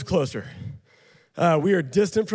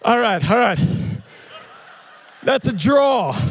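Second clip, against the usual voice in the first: loud, high referee call over the crowd; calling a draw mid tug-of-war; 3 semitones higher, 3 dB louder than usual. Real, not acted. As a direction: shout the result like a ref.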